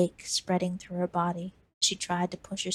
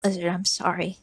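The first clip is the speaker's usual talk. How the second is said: wheezed. Acted. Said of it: "Cactus wheezed".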